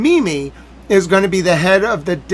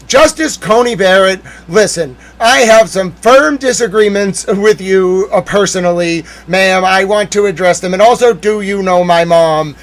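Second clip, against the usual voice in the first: louder, formal lawyer addressing the Justice; mock courtroom argument; 6 dB louder than usual. Arguing before the Supreme Court, pretend lawyer, louder. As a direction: argue your case loudly and formally before the bench. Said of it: "Imagine me arguing in front of the Supreme Court".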